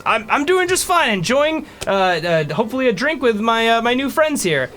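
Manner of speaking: put-on a content old dwarf with new friends; old dwarf, pitch up. GM plays old dwarf NPC.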